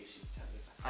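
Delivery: a mean stage whisper; catty whisper. Acted. Drunk girl whispering an insult about her friend. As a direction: whisper it behind her hand.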